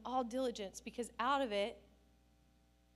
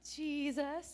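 put-on posing little girl; 3 semitones higher than usual.

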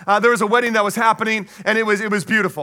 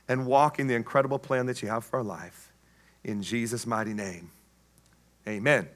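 prayer; 4 semitones lower than usual. Real, not acted. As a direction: pray aloud, easing down to a hushed amen. Leads a closing prayer.

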